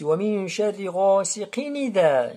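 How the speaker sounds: no glottal stop before "idha"; linked recitation. Shown as a demonstration. Teacher shows direct passage, linked "ghasiqin idha". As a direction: run "ghasiqin" into "idha" without a break. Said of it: "On passe directement de qaf jusqu'à dhal".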